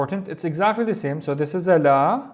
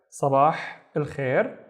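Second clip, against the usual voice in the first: slow repeat; slower than usual. Shown as a demonstration. Teacher repeating the greeting.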